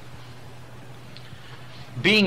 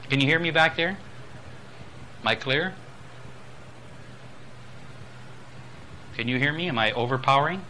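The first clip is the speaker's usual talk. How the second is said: projecting to the back; 3 semitones higher, 4 dB quieter than usual. Shown as a demonstration. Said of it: "You talk to the person that is the furthest away".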